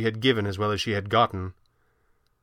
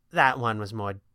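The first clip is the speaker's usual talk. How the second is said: gently; 3 semitones lower than usual. A narrator's reading. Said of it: "she said gently".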